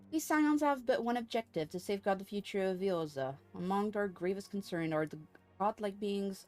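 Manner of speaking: lightly voiced courteous order leader; formal, lilting dialogue read-aloud; formal game character. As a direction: deliver it as a stately quest-giver.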